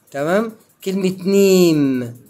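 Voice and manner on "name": "نيم" drawn out, ending on M; no vowel after the M in نيم; silent final E. Shown as a demonstration. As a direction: say نيم slowly as one syllable. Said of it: "برضو ما نطقناش ال ايه؟".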